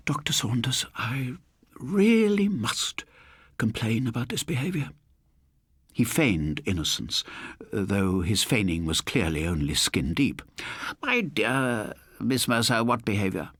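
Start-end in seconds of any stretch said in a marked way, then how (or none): 0.1-4.9 put-on high, prissy elderly lady scolding; a genteel spinster putting her foot down; stretched-out indignant "really must"; prim old lady. Prim landlady complains. 11.0-13.5 a hint of a smooth, mock-innocent man; understated sly gentleman; lightly voiced doctor.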